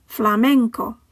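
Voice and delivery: Flamenco with MEN stressed; penultimate stress. Shown as a demonstration. Teacher modelling the final word, Flamenco stressed on MEN. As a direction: say Flamenco in Spanish, fla-MEN-co. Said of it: "stress falls on the penultimate syllable".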